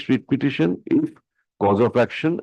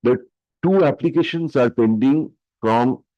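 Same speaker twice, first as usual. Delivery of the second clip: dictating. Real, not acted. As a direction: dictate each phrase for the stenographer. Dictates the court order.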